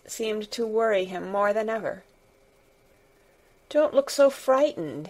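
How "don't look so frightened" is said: higher-pitched, urgent exclamation; troubled outburst, not a shout; exclaimed. A narrator's reading. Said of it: "he exclaimed".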